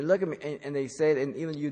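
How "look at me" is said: raised, louder parental demand; insistent parent. Retold or imitated. Parent to an eye-rolling child, insistent. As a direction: insist like a parent wanting attention.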